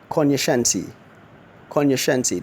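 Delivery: Cognoscente said kon-yuh-SHEN-tee; teacher slowly modelling Cognoscente; model pronunciation. Shown as a demonstration. Teacher showing listeners how Cognoscente is said. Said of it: "that's how that word is pronounced".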